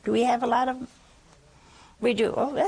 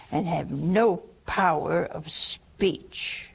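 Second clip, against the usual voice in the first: slow stern verdict, dropping to a whisper; tough angel; slower than usual. Retold or imitated. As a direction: pronounce judgement slowly, hushing at the end. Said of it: "this is a tough angel".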